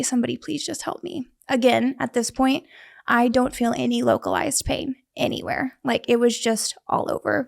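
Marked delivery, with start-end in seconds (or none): 0.0-1.3 pleading softly. Retold or imitated. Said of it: "the look that I gave her was probably like".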